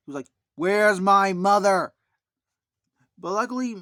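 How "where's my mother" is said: loud, slow, drawn-out demand; upset cry. Retold or imitated. Michael upset about his missing mother, loud slow demand. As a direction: plead it loudly and slowly. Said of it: "he got very upset".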